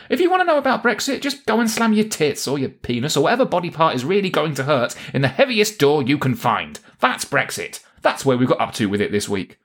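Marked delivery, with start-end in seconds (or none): 0.1-6.8 high-pitched, exasperated outburst; fed-up rant. Acted. Host gives up on explaining Brexit to listeners, fed-up rant. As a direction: pitch it up and rattle it off, out of patience.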